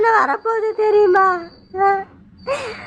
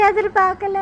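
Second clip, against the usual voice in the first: much softer and lower, the voice dropping away; fading whisper of grief; 4 semitones lower, 6 dB quieter than usual. Acted. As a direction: let எதிர்பார்க்கல die out. (எதிர்பார்க்கல மெல்லிய குரலில் தேய்ந்து போகும்)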